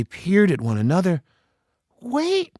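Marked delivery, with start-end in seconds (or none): 2.0-2.5 sudden recognition. A narrator's reading. Annie recognizes her brother.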